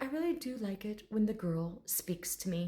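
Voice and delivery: soft, lightly refined dragon voice; a hint of courteous formality; proper gentleman. Dragon talking about the girl, softly proper. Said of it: "this very proper gentleman".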